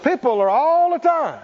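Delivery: preacher shouting the line for the church to echo; call-and-response shout. Shown as a demonstration. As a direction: lead the congregation at full voice. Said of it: "Say it out loud".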